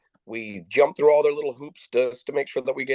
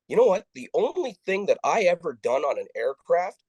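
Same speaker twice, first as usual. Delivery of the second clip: retold loud accusation; 3 semitones higher than usual. Traveller telling off airline staff within earshot, mildly raised retold protest. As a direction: imitate calling out a complaint for others to hear. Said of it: "I said it loud enough that all the people behind me heard".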